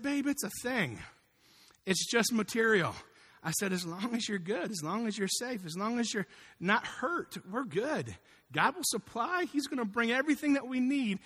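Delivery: calm a worried partner, easing off the volume; gentle reassurance. Retold or imitated. Husband comforting his wife after the crash, gently reassuring.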